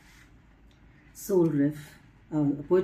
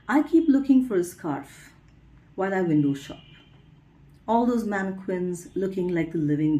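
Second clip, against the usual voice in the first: expressive reading, lines set apart by pauses; poetry recital; 2 semitones higher than usual. Acted. Poet reading her scarf poem to listeners, recital. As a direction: recite your poem, lifting the openings of lines.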